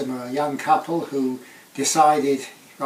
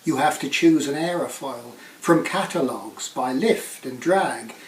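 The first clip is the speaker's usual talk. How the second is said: measured poem recital with deliberate phrasing; poetry reading; 2 semitones higher, 4 dB louder than usual. Acted. Poet reading an aeroplane-design poem to an audience, measured recital. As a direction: read it as verse, pausing between phrases.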